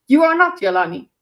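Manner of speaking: lecturing a daughter, lightly mock; mock parent scolding. Player mimics parents lecturing daughters, mock stern. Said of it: "parents can tell their daughters".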